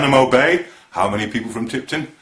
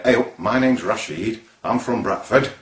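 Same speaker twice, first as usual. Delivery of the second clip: imitated Bradford Yorkshire accent; 3 semitones lower than usual. Presenter mimics a Bradford local introducing himself, Bradford accent. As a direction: put on a mild Bradford accent. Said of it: "they all talk like this".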